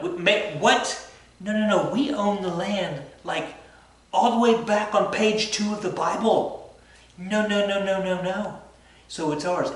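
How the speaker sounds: high, loud, hammed-up no-no-no; mock outraged protest. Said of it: "the Jewish people were like".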